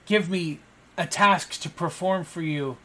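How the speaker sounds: a hint of a desperate underling begging his lord; begging servant. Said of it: "And he goes".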